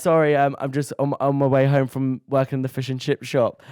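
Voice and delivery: put-on a light stab at a Northern accent; attempted Northern English accent. Boyfriend explaining himself on the Zoom, light Northern accent. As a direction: imitate him with a hint of Northern. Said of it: "oh, he's Northern".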